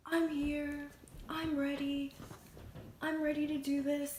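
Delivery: hyped-up self. Retold or imitated. Imitating her pumped self arriving at the photo shoot, loud and eager. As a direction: shout it like walking onto set.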